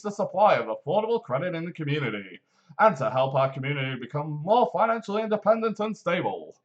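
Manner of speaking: polished advert read, steady and upbeat; voiceover voice. Acted. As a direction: sell it like a radio ad announcer. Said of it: "Do you like my voiceover voice?".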